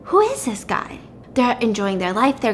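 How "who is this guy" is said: retold shocked surprise. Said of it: "and she's like".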